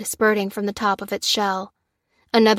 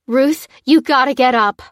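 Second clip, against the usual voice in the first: urgent, louder plea; pleading with her friend to stand up; loud begging; 4 semitones higher, 7 dB louder than usual. A narrator's reading. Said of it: "begged Lucy".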